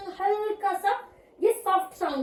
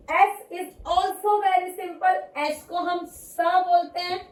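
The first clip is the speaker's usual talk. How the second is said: slow teaching; slower than usual. Shown as a demonstration. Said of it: "teacher slow demo".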